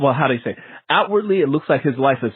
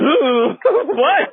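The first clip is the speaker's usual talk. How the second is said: mock surprise; 13 semitones higher, 3 dB louder than usual. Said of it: "just went".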